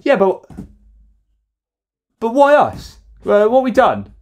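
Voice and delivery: exaggerated high whine of a wronged holidaymaker; mocking whiny tourist.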